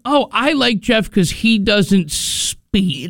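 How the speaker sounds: slow, drawn-out mocking quote; lightly parodying the fan's reason; mock fan drawl.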